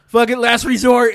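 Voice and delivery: loud, high frantic yell; desperate. Retold or imitated. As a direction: throw it out in desperation. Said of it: "you'll be like".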